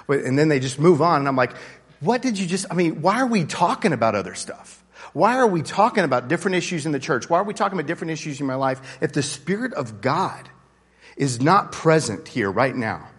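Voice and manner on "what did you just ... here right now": higher, urgent challenge; exasperated disbelief. Retold or imitated. Preacher challenging people who just move on, exasperated disbelief. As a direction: break in, pitch jumping up in disbelief.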